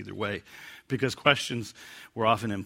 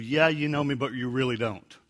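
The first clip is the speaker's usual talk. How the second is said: wry dismissal. Shown as a demonstration. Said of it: "that sense of".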